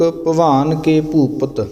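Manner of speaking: slow, a small pause after ਭਵਿੱਖ before ਭਵਾਨ ਕੇ ਭੂਪਤ. Shown as a demonstration. Teacher shows the student where the verse pauses, slowly. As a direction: let the line rest, then say ਭਵਾਨ ਕੇ ਭੂਪਤ slowly. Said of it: "ਇੱਥੇ ਜਮਕ".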